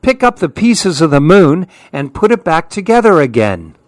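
high, eager shouting; excited yelling. Acted. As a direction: egg him on all together. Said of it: "started yelling".

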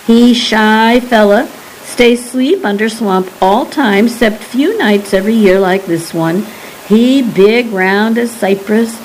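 a hint of Cajun lilt, telling a monster tale; old Cajun storyteller. Old Pearl describes the Thunderer to the geologists, lightly Cajun.

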